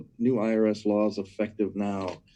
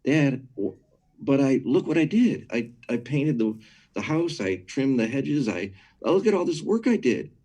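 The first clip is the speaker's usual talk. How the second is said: put-on higher, eager kid protesting to dad; pleading son; 4 semitones higher than usual. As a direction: plead your case like a boy showing off his chores. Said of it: "I'm the son".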